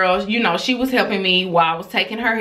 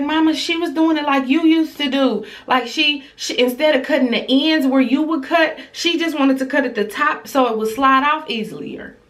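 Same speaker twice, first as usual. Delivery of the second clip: put-on higher-pitched child defending her sister; imitating young daughter; 7 semitones higher than usual. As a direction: plead the case in a child's voice. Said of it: "She was like".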